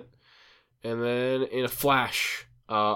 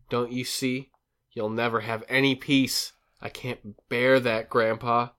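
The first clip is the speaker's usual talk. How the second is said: pleading retake. Shown as a demonstration. Host redoing Dana's plea to Grandpa, pleading. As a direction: beg him to remember who he was. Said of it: "the wrong inflection".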